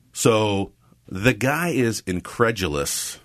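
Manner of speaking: slow, weighty storyteller line, each word drawn out; dramatic narrator read. Shown as a demonstration. Telling the cat story, in a slow dramatic narrator voice. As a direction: savour it like a movie trailer. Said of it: "Ooh, very nice".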